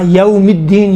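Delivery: "یوم الدین" smoothly as yaw-mid-deen; no jerk. Shown as a demonstration. Teacher correcting a student, smooth glide. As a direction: let "یوم" glide, no jolt. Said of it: "جھٹکا نہیں ہے وہاں".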